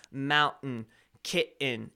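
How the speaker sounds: "mountain, kitten" with the T swallowed; Colorado pronunciation. Shown as a demonstration. Streamer demonstrating Colorado English, dropped T in "mountain, kitten". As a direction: say "mountain, kitten" as moun'-n, ki'-in. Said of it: "in Colorado English, it's".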